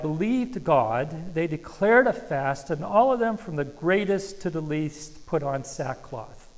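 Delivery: slow, deliberate reading of a Bible verse; scripture reading. Acted. Pastor reading Jonah to the congregation, slow and deliberate. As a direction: read each phrase out slowly to the church.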